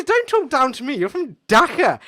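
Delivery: high, loud, slowing on Dhaka; retold angry shout. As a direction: bark it back at him in a rage. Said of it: "He goes".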